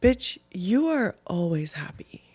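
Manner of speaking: whispered self-scolding; slow hushed whisper to herself. Retold or imitated. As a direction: hiss it at yourself like a private scold. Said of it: "I was like".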